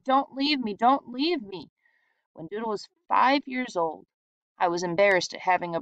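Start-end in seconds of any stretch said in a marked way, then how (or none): 0.1-1.7 crying plea. A narrator's reading.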